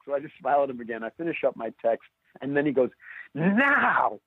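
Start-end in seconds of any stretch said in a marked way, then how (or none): 3.3-4.2 high-pitched mock yell, imitating a furious neighbour; mock scream. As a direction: shriek it like he's about to blow a gasket. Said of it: "screaming off the top of his lungs".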